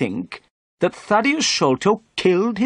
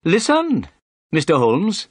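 high, emphatic opening on "Listen"; pompous inspector demanding attention, voice raised in pitch; self-important; 8 semitones higher, 4 dB louder than usual. A narrator's reading. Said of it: "he said importantly".

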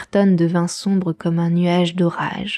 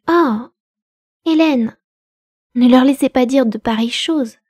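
troubled; 4 semitones higher, 4 dB louder than usual. A narrator's reading. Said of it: "très troublée".

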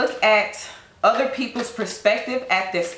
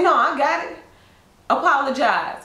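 higher, sharp rude snap; snippy stranger; 4 semitones higher than usual. Acted. Rude stranger snapping at the person who bumped them, higher and sharp. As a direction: sass them like an offended stranger.

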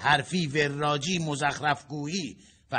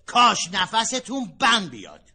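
higher and louder second try at the wish; louder repeat; 6 semitones higher, 7 dB louder than usual. Acted. Husband repeating his wish loudly after she asks what. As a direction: say it again so she can't miss it. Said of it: "چی؟".

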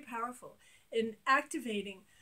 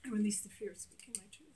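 1 sample affirmation; 3 dB quieter, faster than usual. Shown as a demonstration. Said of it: "Let's say you're noticing".

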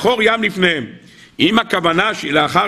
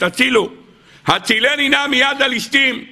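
higher-pitched mock cry for rescue; retold cry for help; 6 semitones higher than usual. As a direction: plead for help, voice raised in pitch but not volume. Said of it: "צועקת". (קריאה מעושה לעזרה)

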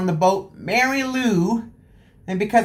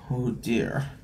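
soft oh dear; 9 semitones lower, 9 dB quieter than usual. Acted. Bucket stuck on head.

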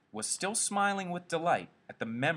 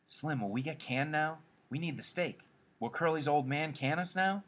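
worried asking; 6 semitones higher than usual. Acted. George worries about being fired.

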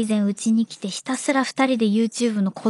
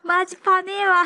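japanese gyaru slang; 7 semitones higher than usual. Pretend. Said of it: "ギャルの口調で".

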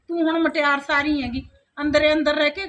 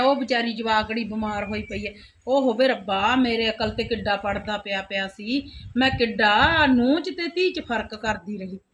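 remorseful regret; 3 semitones lower than usual. Acted. Mother-in-law regretting treatment of sick daughter-in-law, remorseful and low.

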